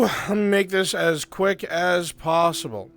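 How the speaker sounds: calling out. Real, not acted. Game master hurrying the players along, calling out. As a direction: project it over the whole group.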